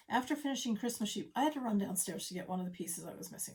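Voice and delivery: breathless after stairs; out of breath from running. Real, not acted. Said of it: "I'm a little out of breath".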